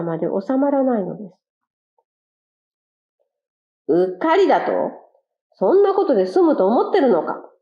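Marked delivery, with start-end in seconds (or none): 3.9-7.5 lightly voiced angry shout; a touch of fury at the excuse; mild mock yell. Stepped-on quail yells at the careless one, mildly. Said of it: "と怒鳴りました".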